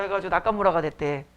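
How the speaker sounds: ordinary delivery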